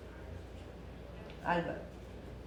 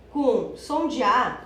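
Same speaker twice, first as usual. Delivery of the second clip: проговаривает медленно и с нажимом «com som de A»; slow, stressed; 4 dB louder, much slower than usual. Shown as a demonstration. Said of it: "quando eu digo som de A".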